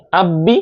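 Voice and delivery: আব্বি with the b held and doubled; doubled consonant. Shown as a demonstration. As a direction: sound the ব twice in আব্বি. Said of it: "তাসদিদের উচ্চারণ প্রতিটা হরফে দুইবার হবে". (আব্বি-তে ব দুইবার উচ্চারণ)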